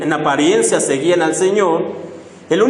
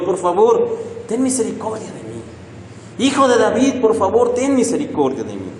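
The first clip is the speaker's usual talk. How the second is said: pleading supplication; 3 dB quieter than usual. Retold or imitated. Blind beggar begging the Lord, soft humble plea. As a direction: beg humbly, not demanding. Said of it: "es un grito suplicándole al Señor".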